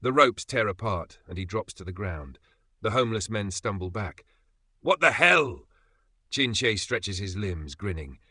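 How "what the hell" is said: high, loud startled What the hell; shocked cry. A narrator's reading. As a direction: stumble back and blurt it out. Homeless men stumble back shocked.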